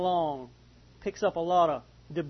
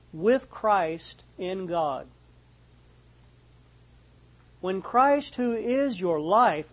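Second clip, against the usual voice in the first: slow, deliberate scripture reading with long pauses; measured verse-by-verse Bible reading. Real, not acted. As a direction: read slowly, letting each phrase sink in. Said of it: "read this kind of slow".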